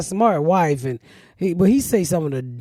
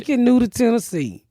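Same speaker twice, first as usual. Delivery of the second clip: mimicking brother; 4 semitones higher than usual. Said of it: "That's what he said".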